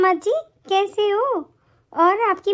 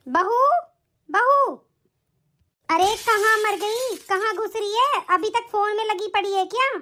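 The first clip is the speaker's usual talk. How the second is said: scolding mother-in-law calling out; shouting for daughter-in-law. Acted. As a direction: call her out impatiently, then berate her. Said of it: "क्यों चिल्ला रहे हो आप इतनी जोर जोर से?".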